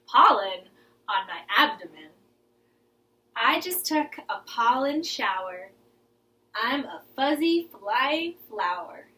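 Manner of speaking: rhythmic rhyme with movements; lilting kids' rhyme; poem recitation. Shown as a demonstration. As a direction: chant it while acting it out. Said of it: "join me for the movements".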